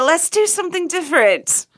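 hammed-up American impersonation; bad American accent. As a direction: put on a clumsy American accent. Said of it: "that was your American accent".

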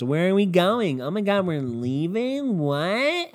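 lightly voiced dramatic girl, whiny; a hint of a clueless reality-show girl; imitating the girls. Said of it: "I'm gonna imitate all the girls".

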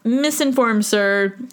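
slow, prim putdown to the guy; mock formal correction. Correcting the man who lied about herpes, slow and prim. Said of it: "I was like".

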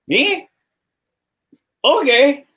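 squeaky high surprised "Me? Okay."; surprised bum. Retold or imitated. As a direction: jump way up in pitch, caught off guard. Bum surprised at free ride offer.

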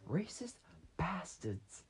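hissed whisper through the door; whispered insult. Retold or imitated. Friend whispers outside the door, hushed mock insult. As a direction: whisper it like a secret jab.

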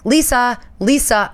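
lightly voiced barista call. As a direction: call the wrong name across the bar. Barista calling wrong name.

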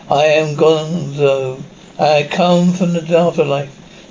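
slow, drawn-out voice of a returning spirit; lightly voiced spirit. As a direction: lightly act a spirit speaking through a medium, slowly. Father's spirit speaks through the medium.

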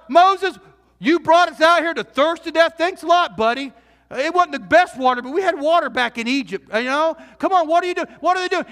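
a crowd griping at Moses, sarcastic; sarcastic grumbling. Retold or imitated. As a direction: sneer at Moses like a thirsty crowd.

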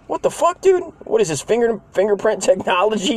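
very high incredulous squeak. Real, not acted. Comedian reliving the theft, very high incredulous outburst. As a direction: disbelief pushed up high. Indignant about toy theft.

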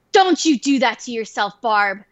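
stern, rousing speech to a friend; rally them like a movie hero; hammed-up motivational command, rising in pitch; mock patriotic pep talk. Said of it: "there was, like, this patriotic music".

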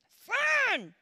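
loud, high, exclaimed fine; emphatic fine. Acted. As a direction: throw the word out to the room. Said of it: "But I wasn't fine".

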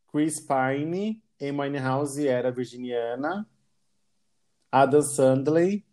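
winded from reading a long list; out of breath, running out of air. Real, not acted. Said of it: "tô sem fôlego".

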